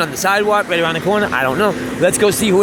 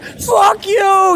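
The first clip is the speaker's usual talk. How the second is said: much higher, loud mock shout; retold shout; 4 dB louder than usual. Angry resident cursing at the musicians from above, high mock shout. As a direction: throw it at the street like an annoyed neighbor. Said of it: "and then I heard".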